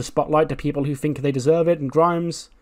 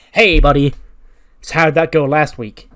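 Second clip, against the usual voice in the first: mock cheery taunt; 3 semitones higher, 9 dB louder than usual. Mark Andrews taunts Aleister Black.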